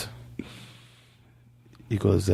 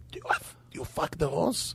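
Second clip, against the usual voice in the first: whispered question; 10 dB quieter than usual. Acted. Doctor asks intimate question.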